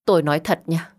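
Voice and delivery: ordinary delivery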